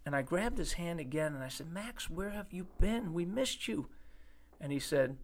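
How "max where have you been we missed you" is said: tender greeting. Retold or imitated. Repeating tender greeting to Max.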